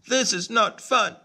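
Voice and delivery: a little bird listing who rejects him; tiny-voiced duckling, hurt and alone; sad ugly duckling. A narrator's reading. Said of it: "says the ugly duckling".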